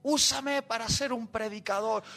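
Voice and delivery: imitating an eager young volunteer praying; fervent plea. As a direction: plead with God in a rising list of requests. Acts out his fervent youthful prayer.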